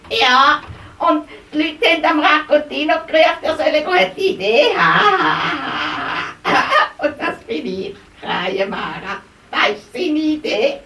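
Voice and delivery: a quick cheeky crow; chirpy crow. Acted. Crow figure talks.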